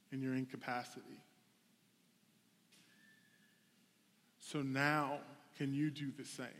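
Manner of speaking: softly voiced, unhurried, with long pauses; gentle inner whisper. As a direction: imitate a hushed voice speaking to the conscience. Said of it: "like, whispers".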